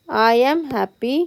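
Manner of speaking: very slow, each word spaced for copying; slow dictation. Shown as a demonstration. Teacher dictating the example sentence to students very slowly.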